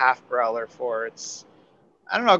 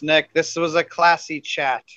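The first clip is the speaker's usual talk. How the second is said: sarcastic drawl; slower than usual. Real, not acted. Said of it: "sarcastic remark".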